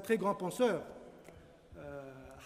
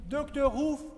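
slow and louder, every word weighed; proclaiming the sign; 6 dB louder, much slower than usual. Acted. Reading the final door sign aloud, slow and proud. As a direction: read it out slowly like a proud announcement.

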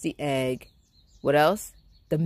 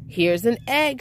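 shouted; 6 semitones higher, 4 dB louder than usual. A narrator's reading. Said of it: "shouted Jack".

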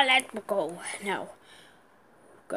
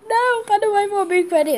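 high, loud insistent call; urgent call; 11 semitones higher, 8 dB louder than usual. Real, not acted. Kid repeats the warning, still loud but calmer. Fleeing a big enemy.

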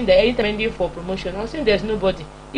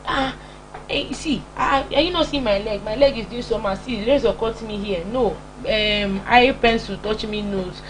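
mock excuse-making. Lazy worker explaining to the boss why not to work, mock excuse-making. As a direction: lightly play a lazy worker pleading small injuries.

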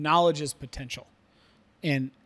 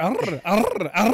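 mock grunting; 4 semitones higher, 5 dB louder, slower than usual. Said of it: "she'll sit there".

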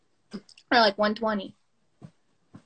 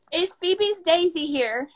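slow, higher British-sounding slip; accidental British accent; 4 semitones higher, slower than usual. Real, not acted. Fan asking for Daisy slips into a slow British accent. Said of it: "Did you hear me start going British?".

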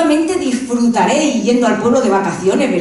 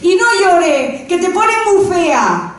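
grandma's scolding; 6 semitones higher, slower than usual. Retold or imitated. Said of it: "Mi abuela pobrecilla decía".

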